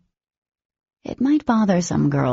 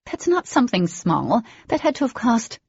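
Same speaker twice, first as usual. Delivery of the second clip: shocked; 7 semitones higher than usual. A narrator's reading. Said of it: "Shock heightened my tone".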